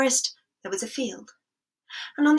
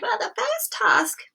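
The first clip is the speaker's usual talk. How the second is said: lightly voiced king; 3 semitones higher than usual. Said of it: "And the king said".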